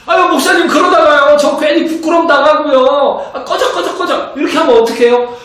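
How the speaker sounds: high, loud, half-laughing complaint; whiny congregant protest. Acted. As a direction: play the nervous churchgoer whining at the pastor. Voices a congregant's fearful objection.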